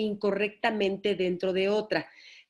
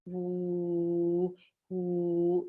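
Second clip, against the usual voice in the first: voiced uh sound; 3 semitones lower, 3 dB quieter than usual. Shown as a demonstration. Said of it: "ponerle sonido".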